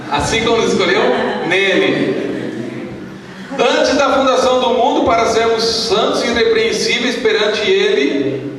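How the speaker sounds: high, ringing verse reading; scripture reading. Acted. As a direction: proclaim the verse to a congregation. Reads scripture aloud to congregation.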